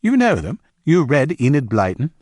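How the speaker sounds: high, surprised questioning. A narrator's reading. Ben asks Diana about Enid Blyton, surprised. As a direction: pitch jumps up in pleased disbelief. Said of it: "he said, surprised".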